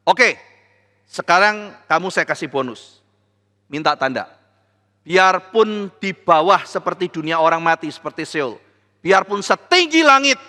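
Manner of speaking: God grandly offering any sign. Acted. God speaking to King Ahas.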